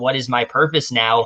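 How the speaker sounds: normal talking voice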